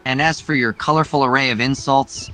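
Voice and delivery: a hint of smug flirtation; teasing suitor. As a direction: tease her like a smug courtier. Same teasing hero voice.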